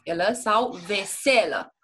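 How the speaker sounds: veselă said twice, stress shifted between VE and SE; stress contrast. Shown as a demonstration. Tutor contrasting stress placement for student, deliberate. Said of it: "Accentuez prima silabă".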